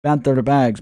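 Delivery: loud put-on accent on banter bags; Crypto Banter accent. Streamer mocking rival's giveaway, loud put-on accent. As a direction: bark the brand name in his accent. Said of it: "doing an accent on crypto banter".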